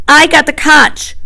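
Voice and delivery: high, emphatic protest; insist, pitched high and slowed down; indignant insistence. A narrator's reading. Piggy protests after being silenced.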